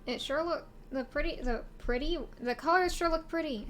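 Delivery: tripping over the words; stuttering. Real, not acted. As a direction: stumble and repeat yourself. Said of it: "I sound like I'm stuttering".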